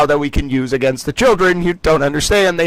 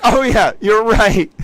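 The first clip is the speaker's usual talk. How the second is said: higher and slow, dawning disbelief; incredulous Towelie; 5 semitones higher, slower than usual. Retold or imitated. Towelie realizing the general is right, lightly incredulous. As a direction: let it sink in, a little stunned. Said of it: "He becomes a little incredulous".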